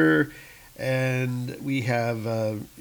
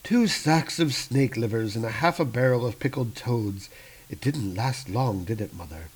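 cold accusing son; 3 dB quieter than usual. Acted. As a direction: let the accusation sink in. Malekith coldly accuses mother.

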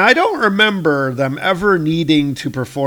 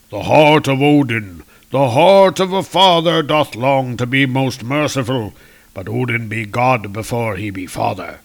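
solemn king. Acted. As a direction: pronounce the sentence like a stern father-god. Reading Odin's grave decree.

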